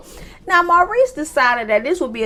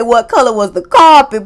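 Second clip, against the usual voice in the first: incredulous; 9 dB louder than usual. Real, not acted. Requoting, laughing in disbelief.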